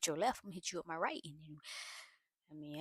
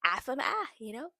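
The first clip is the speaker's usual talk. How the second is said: louder, higher, rising outrage; real irritation; 4 semitones higher, 8 dB louder, faster than usual. Real, not acted. Vlogger reacting to the mother-in-law, heated loud outrage. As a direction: build up heated disbelief. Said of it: "that whole conversation just irritated me".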